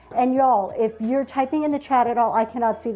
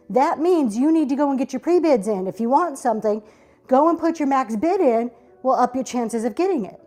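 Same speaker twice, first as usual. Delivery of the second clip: out of breath. Real, not acted. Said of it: "Y'all, I am out of breath".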